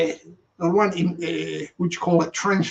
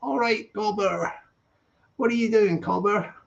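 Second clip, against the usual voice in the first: mock Aussie accent; 3 semitones higher than usual. Streamer imitates an Aussie viewer, mock Aussie accent. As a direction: greet a mate in a playful Aussie accent. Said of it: "I don't sound like Aussie".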